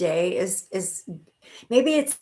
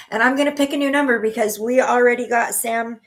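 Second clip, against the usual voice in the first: laughing; 3 semitones higher, 3 dB louder than usual. Real, not acted. Laughing while picking numbers.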